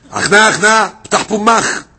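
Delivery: loud, high command; calling out commandingly. Retold or imitated. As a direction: call out an order to the snake. Commanding the snake to open.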